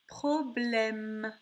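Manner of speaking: "Problème" slowly, syllables clearly parted; drawn-out teaching "Problème"; word sounded out. Shown as a demonstration. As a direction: dictate "Problème" with a lengthened ending. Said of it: "on entend le son M".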